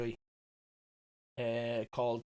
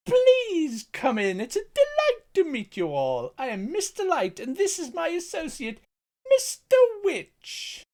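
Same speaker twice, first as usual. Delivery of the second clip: flamboyant Dean Pelton; 7 dB louder than usual. Acted. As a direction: sing out a gushing host's welcome. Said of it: "as played by Dean Pelton".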